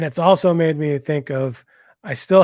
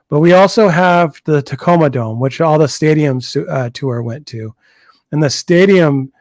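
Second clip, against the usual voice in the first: too close to mic; 4 dB louder than usual. Real, not acted. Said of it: "A little hot".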